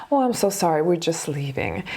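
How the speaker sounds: a mild, sweetly regretful brush-off; kind, sweet. Retold or imitated. Charlotte politely excusing herself from a creep, kind and sweet. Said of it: "in a very kind and sweet way".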